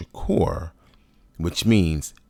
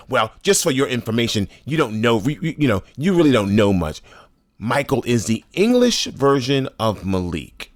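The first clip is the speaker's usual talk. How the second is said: higher, lecturing mimicry; imitating condescending coworker; 6 semitones higher, 4 dB louder than usual. Coworker lecturing him about his name, higher condescending mimicry. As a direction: play her know-it-all tone, pitched up. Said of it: "she's like".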